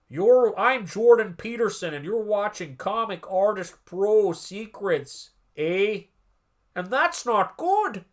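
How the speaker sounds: slow, earnest lecturing drawl, trailing off; Jordan Peterson impression. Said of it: "that was bad, Jordan Peterson. I did my best".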